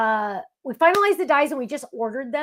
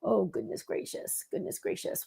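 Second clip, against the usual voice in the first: shocked sympathy; 12 dB quieter than usual. Real, not acted. Hearing of heart surgery.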